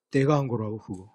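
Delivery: lightly voiced cocky boy, chest out; smug bragging. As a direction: show off as if he did it all himself. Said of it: "뻗대면 얼마나 꼴보기가 싫겠어요". (거만하게 뻐기는 말투)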